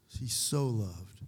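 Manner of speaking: "so" held long, slow phrase; stress on SO. Shown as a demonstration. Preacher pressing home the little word, "so" drawn out. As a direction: linger on "so", letting "loved" fall. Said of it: "It's emphatic".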